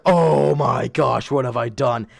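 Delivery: mock horrified realization; dawning horror. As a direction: draw it out as the realization sinks in. Retold dawning horror at himself.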